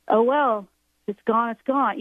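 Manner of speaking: mildly shrugging it off; nonchalant. Acted. Speaker shows listeners letting go of fear, mildly nonchalant. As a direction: say it with a touch of casual resignation. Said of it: "a way to say it in a nonchalant way".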